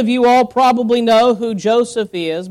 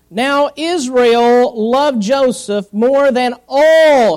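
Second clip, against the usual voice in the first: scripture reading. Acted. Reads scripture aloud to congregation.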